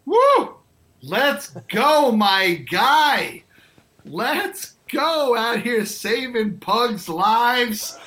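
very high, loud whoop; cheering. Real, not acted. Host cheering the guest's pug story, loud high whoop. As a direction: hype up the guest with a big cheer.

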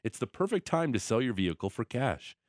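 smooth radio ad read. Acted. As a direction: read it like a sponsor spot. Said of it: "change to radio read voice".

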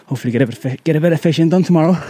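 breathless while climbing uphill; panting between words on a steep hike; out of breath. Real, not acted. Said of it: "Sorry, I'm sounding out of breath here".

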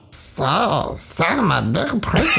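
mock Yoshi voice. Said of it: "can you do it as Yoshi?".

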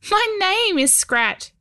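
high little goblin voice; tiny homunculus voice. Acted. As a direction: speak as a tiny stone creature. Goblin Scrat speaks.

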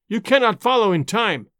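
put-on old spy taunting Hannay with fanatic pride; fanatic triumph. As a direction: savour the victory. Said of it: "he cried".

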